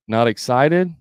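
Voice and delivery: questioning rise on "excited"; rising inflection. Shown as a demonstration. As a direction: mirror it back, "excited" turned up into a question. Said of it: "put an inflection on the end".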